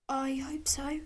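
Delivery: a hint of a hesitant boy; unsure little boy. A narrator's reading. Boy answers the inquisitor, unsure.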